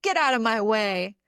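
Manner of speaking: mildly irritated outburst, acted; mock angry. Angry part telling off the inner saboteur, mildly mock angry. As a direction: snap a little, as a half-hearted telling-off. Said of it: "it wasn't angry".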